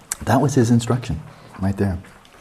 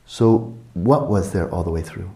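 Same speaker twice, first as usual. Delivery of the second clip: normal talking voice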